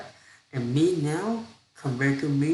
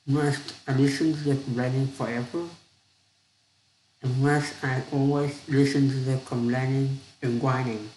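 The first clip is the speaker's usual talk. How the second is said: complaining. Acted. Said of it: "asked the wife, complaining".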